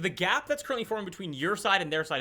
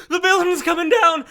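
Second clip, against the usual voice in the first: very high, loud yell of alarm; panicked warning shout; 12 semitones higher, 11 dB louder than usual. Acted. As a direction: scream the warning to everyone. NPC warns of collapsing building.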